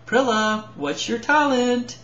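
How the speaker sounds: impatient Tink. Acted. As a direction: demand the answer again. Tink repeats question impatiently.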